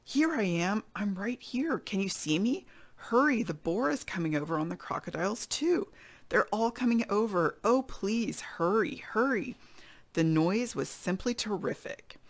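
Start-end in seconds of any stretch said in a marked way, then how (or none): 0.0-9.6 mild storybook yell; yelling for help. Acted. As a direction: call to your rescuer urgently.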